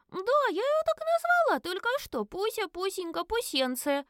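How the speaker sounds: put-on very high cooing child; little girl voice. A narrator's reading. Little girl telling dad the pet's new name, high and cooing. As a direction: pet names cooed out.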